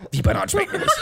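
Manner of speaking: viel höher, ungläubig lachend; empört nachfragen, hoch und lachend. Retold or imitated. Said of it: "sind alle so". (Leute reagieren ungläubig auf die Bananenabneigung, hoch)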